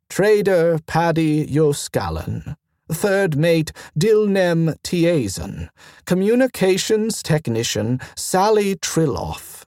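measured roll-call of names; reading out names. A narrator's reading. Magistrate reads the accused's names from her screen, reading out. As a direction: read each name and title off deliberately. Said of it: "she read".

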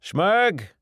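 high, loud shout of a name; calling out. Acted. Bar owner summoning his worker, loud call. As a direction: holler for your helper.

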